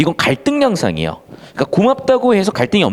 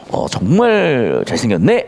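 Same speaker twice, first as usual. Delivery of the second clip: slow, mocking compliment; sarcastic praise; 5 semitones lower, slower than usual. Shown as a demonstration. Teacher demonstrating irony to students, slow sarcastic compliment. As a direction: drawl out fake praise to mock him. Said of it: "막 이러면서 비꼬는 거지".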